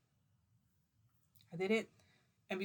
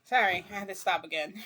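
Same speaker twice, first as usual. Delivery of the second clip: apologetic burst; 11 dB louder than usual. Real, not acted. Comes back after interruption.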